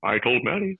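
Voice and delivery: a modest impression of the coworker; Alan Wooten impression. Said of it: "This is about as good as I get".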